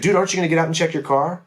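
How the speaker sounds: high-pitched, hurried mock disbelief; incredulous buddy. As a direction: play the shocked passenger pushing him to check the car. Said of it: "He's like".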